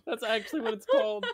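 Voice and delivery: laughing. Real, not acted. Laughing at item name.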